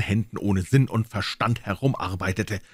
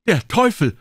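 much higher, louder snap; high snapped curse; 11 semitones higher, 7 dB louder than usual. Acted. Little old men snapping a curse high and loud. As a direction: snap it out in shock.

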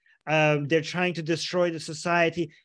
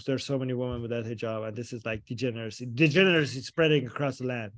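mock pious lament; 4 semitones lower than usual. Mocking religious lament.

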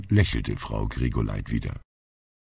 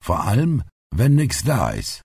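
put-on higher-pitched old grandpa character voice; plain-spoken grandfather; 8 semitones higher than usual. A narrator's reading. Grandpa objects to the party woman, pointed character voice.

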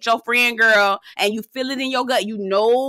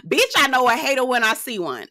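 laughing repeat; 3 semitones higher than usual. Real, not acted. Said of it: "I really do".

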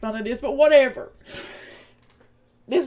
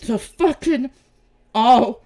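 quicker, louder snap on "audacity"; sharper, louder second take of the insult; outraged; 6 dB louder than usual. Real, not acted. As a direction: spit out "audacity" hard.

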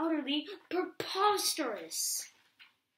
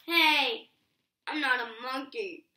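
much louder, protesting "hey"; indignant; 8 dB louder than usual. Acted. Reader objecting to the book calling him a monkey. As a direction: snap back in mock offence.

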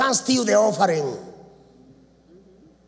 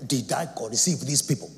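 mocking Moses; 8 semitones lower than usual. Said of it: "If you find a man of God speaking like this".

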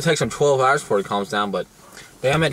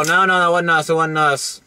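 higher-pitched protest, retold; retold denial; 4 semitones higher, 3 dB louder than usual. Retelling his answer to the guy, mock protesting. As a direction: act out your own hasty denial, pitched up. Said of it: "I go".

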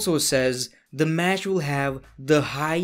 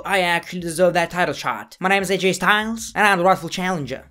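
badly faked accent, pitched higher; A J Styles; 3 semitones higher, faster than usual. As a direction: rattle it off in a terrible put-on accent. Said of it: "That was the worst accent I've ever done".

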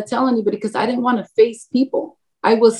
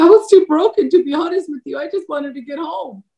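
laughing through it; 6 semitones higher than usual. Retold or imitated. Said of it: "And I said".

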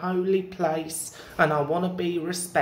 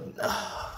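soft, wordless sigh; exasperated sigh; 6 dB quieter than usual. Acted. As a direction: let out a quiet, frustrated sigh. Customer struggles to repeat request.

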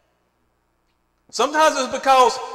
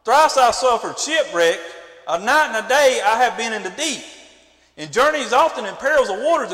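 measured, lower-pitched reading of scripture; 3 semitones lower than usual. Acted. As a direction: read the old text aloud with weight, like a preacher. Reads Paul's list of perils.

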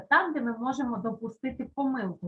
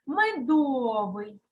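медовий drawn out slowly, unstressed е kept clear; slow dictation; much slower than usual. Shown as a demonstration. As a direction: say медовий slowly for pupils to write. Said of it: "В слові медовий орфограма буква е".

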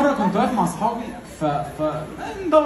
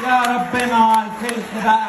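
slow synthetic phone voice; robotic assistant voice; 2 semitones higher, slower than usual. Retold or imitated. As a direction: speak like a mishearing phone assistant. Siri's voice mishearing.

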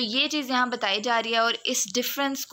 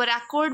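"रिकॉर्ड" as a noun, stress on "री"; stress on first syllable. Shown as a demonstration. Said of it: "री के ऊपर ज़्यादा stress दूंगी". ("रिकॉर्ड" में "री" पर ज़ोर)

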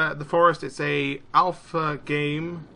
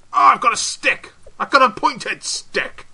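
loud, high-pitched excitement; excited shout, much higher; excited exclamation; 8 semitones higher, 10 dB louder than usual. Real, not acted. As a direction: exclaim it with delight at the find. Thrilled at getting a stick.

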